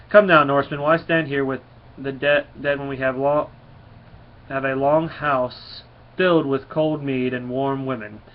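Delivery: a hearty Norse god calling his men, loud and slowing at the end; rally the warriors back to the longhouse with a loud, hearty call; booming Thor. Acted.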